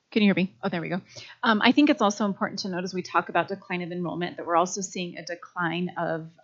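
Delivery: loud projecting classroom voice; teacher voice. Real, not acted. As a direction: project to the back row. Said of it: "I'll use my teacher voice".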